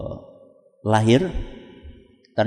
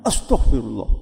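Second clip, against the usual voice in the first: suami kaget; 10 semitones lower than usual. Acted. Suami kaget mendengar bayinya cacat.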